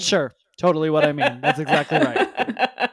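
laughing, eager to smooth it over; backpedaling with a chuckle; laughing sheepish agreement. Retold or imitated. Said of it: "he was like".

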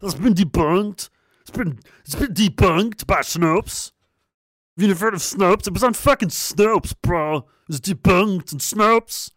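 high, slow, smug nerd voice repeating Snopes; hammed-up smug debunker; smug know-it-all voice. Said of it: "why you read it in that voice".

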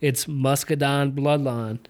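imitating a Southern country band; Southern accent. Podcaster quoting the guys in the band, imitated Southern accent. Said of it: "southern accent".

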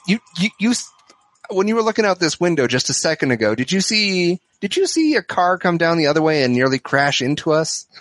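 anxious, rushed questioning; flustered. Acted. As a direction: sound flustered but discreet. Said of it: "kind of f-, flustered".

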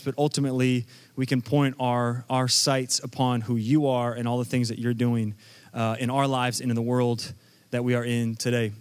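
low, even praying voice; public prayer. Real, not acted. Pastor leading the room in prayer before preaching, low praying voice.

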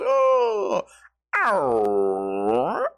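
dog's yawning whine; imitated dog yawn. Imitating his dog stretching, whiny yawn. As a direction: mimic a dog's yawn, swooping down and up. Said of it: "the dog will yawn and go".

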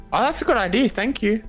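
ordinary talk

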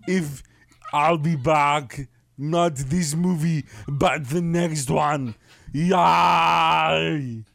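put-on slow Austrian-accented action star; Arnold Schwarzenegger. Impressionist promising a comeback, Austrian strongman voice. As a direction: stretch the words out in a hammed-up Austrian accent. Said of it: "that's Arnold Schwarzenegger".

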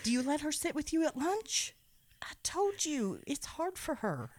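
hushed gossipy whisper; whispered aside about the doll. Acted. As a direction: lean in and whisper it.

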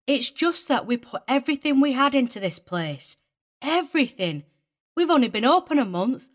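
put-on very high, riled woman with a broad English accent. A narrator's reading. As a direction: rant in a broad, untamed regional accent. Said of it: "her broad accent untamed".

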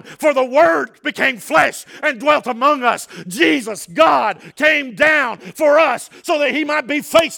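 high, loud, driving sermon voice; full-force preaching. Real, not acted. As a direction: preach it out with rising fervor.

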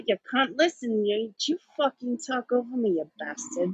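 lightly voiced sweary bloke; mock Caps griping; Caps impression. S1 complaining S0 talks over him, mock Caps. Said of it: "our best impersonation of you".

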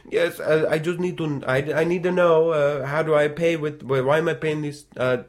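put-on German accent, barely there; failed German accent. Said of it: "I can't even do a fake accent".

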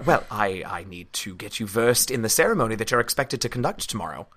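put-on understated English accent. Hawks briefs Flick on tomorrow's ceremony, English accent. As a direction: explain with a light English accent. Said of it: "Wait, she's English, right?".

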